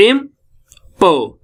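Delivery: इम्पो- slowed, with a pause before the stressed पो; slow, deliberate weight on पो. Shown as a demonstration. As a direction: set पो apart in इम्पो-. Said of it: "प को हम बहुत stress दे रहे हैं".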